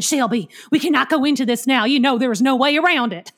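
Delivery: put-on Southern accent. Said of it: "Sally Field saying".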